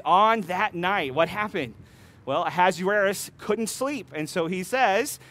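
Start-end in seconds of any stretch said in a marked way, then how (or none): 0.0-1.1 slow, each word weighed, falling on night; slow emphatic reading. Shown as a demonstration. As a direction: lean on "On that night," drawn out and falling. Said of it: "that says".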